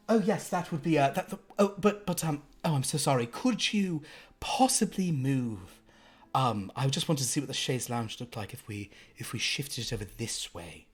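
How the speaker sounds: fussy rich lady. Acted. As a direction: fret over where the furniture goes. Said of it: "you do hear this woman's voice from within".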